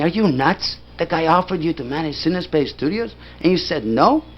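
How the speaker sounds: high-pitched retold disbelief; incredulous. Filmmaker friends challenging him over refused job, incredulous. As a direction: imitate friends aghast at the refusal.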